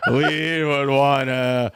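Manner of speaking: very slow, halting bad Chinese accent; mock Chinese accent. Retrying the restaurant order in a slow hammed-up Chinese accent. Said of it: "is that better Chinese?".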